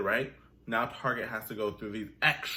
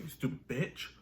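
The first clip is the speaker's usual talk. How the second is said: muttered aside; 5 dB quieter than usual. Retold or imitated. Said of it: "I'm like".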